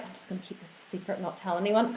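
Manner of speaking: whispered aside; secretive whisper. Retold or imitated. Telling listeners about her nervous self, a whispered aside. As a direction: hush it like a secret. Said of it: "I get nervous and I'm like".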